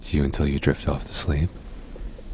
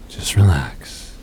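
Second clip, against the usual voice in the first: whispered; 2 semitones higher, slower than usual. Acted. Soothing partner settling him down.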